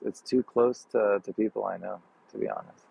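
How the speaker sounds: drowsy, fading into sleepiness; sleepy and drifting off; nodding off. Real, not acted. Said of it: "I'm falling asleep".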